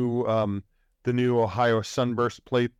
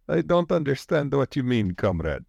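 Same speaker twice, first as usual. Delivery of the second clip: mock Russian accent; 3 semitones higher than usual. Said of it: "with this accent".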